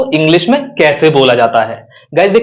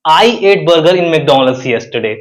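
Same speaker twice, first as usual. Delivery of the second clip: "I" punched at the start of "I ate burger in McDonald's yesterday"; stress on I; much slower than usual. Shown as a demonstration. Teacher shows stress on the subject. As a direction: hit the word "I" hard, rest slow. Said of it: "अगर मैं आई पर जोर दूं".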